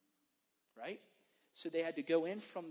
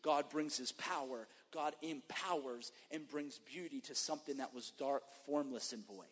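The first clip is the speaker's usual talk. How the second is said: preaching. Acted. Preacher opening the service, solemn preaching. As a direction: proclaim it over the congregation.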